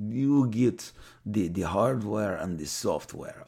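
slow put-on voice of a toy executive; lightly voiced businessman pitching, slow; Toy Biz guy. Toy executive pitching the artist, slow put-on voice. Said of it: "met with me and said".

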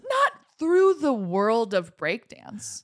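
mock epic shout.

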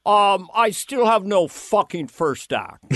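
slow, laughing light Lorne Michaels voice; a hint of Lorne, dry and unhurried; lightly voiced weary producer; Lorne impression. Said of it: "how I got Lorne".

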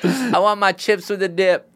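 high-pitched put-on rapper voice; impression of a rapper. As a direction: offer the choice as the star. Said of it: "that's a good rapper impression".

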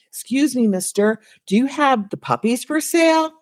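a lightly voiced eager child; little boy. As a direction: pipe up like a small boy asking a grown-up. Voices little boy asking farmer.

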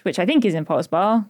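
tentative rise at the end of "Bar"; questioning rise. Real, not acted. Guessing where Oaklands College is, questioning rise on "Bar". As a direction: let "Bar" lift like an unsure question. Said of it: "question mark".

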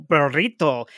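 "burrito" with heavily rolled r mid-sentence; exaggerated Spanish pronunciation. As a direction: imitate Mother suddenly accentuating "burrito". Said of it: "most excessively rolled, uh, accentuated".

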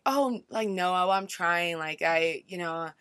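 slow, hesitant self-deprecating shrug; downplaying herself. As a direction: play it down, unsure of yourself. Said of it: "I'm downplaying it".

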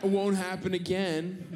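drawn-out, insincere fake apology; dickhead apology. Passenger playing along with kiosk worker, snidely apologetic. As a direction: say the right words like a jerk. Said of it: "I say them like a dickhead".

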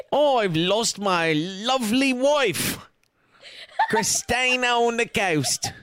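slow, mock-mournful British accent; hammed-up sorrow from a British sweep; slow mock sad British accent; mock British lament. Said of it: "apparently he's British".

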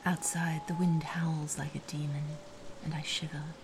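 hushed whispering storyteller; whispered narration. A narrator's reading. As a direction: whisper the story close to the mic.

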